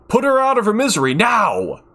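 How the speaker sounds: loud, fast, high demanding shout; angry shout. A narrator's reading. Doctor yells at Kime to end it, fast furious shout. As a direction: order it furiously. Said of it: "he shouts at Kime".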